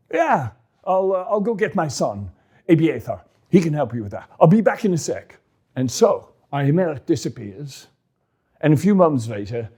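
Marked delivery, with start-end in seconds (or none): 0.1-5.4 put-on high, concerned old priest; a fussing worried priest. Ahimelech voiced.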